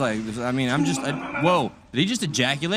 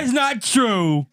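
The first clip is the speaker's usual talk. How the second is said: mock deaf voice; 6 semitones higher, much slower than usual. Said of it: "we can do deaf accent".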